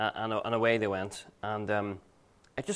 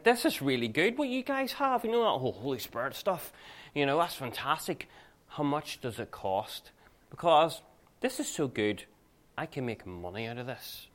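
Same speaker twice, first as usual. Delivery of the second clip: eager buyer's pitch, voice lifted; Simon the sorcerer; 4 semitones higher than usual. Acted. Sorcerer asking the apostles to sell the Spirit, acted eager enthusiasm. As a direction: play an impressed would-be profiteer, higher at the start. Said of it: "he wants to buy".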